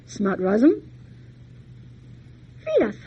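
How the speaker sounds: put-on old men calling their servant, commanding; summoning command.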